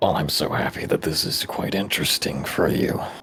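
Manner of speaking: very loud, heavily sarcastic delivery. Replying in character to another character's reading of runes: sarcastic. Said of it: "That sounds very sarcastic".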